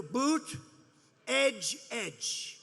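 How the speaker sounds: "Boot" then "edge" spoken as separate words; pronunciation demo. Shown as a demonstration. Speaker showing the crowd how to say Buttigieg, slow syllables. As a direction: split the name into "Boot" and "edge". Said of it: "Say edge like the edge".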